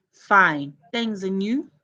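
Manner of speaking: "and you?" ends on a clear rise; rising tune. Shown as a demonstration. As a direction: lift the pitch on "and you?". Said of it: "Notice the rising intonation on "and you".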